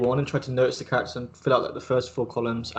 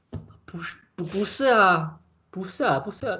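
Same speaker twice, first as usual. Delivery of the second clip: tag; 7 semitones higher than usual. Retold or imitated. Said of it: "They're like".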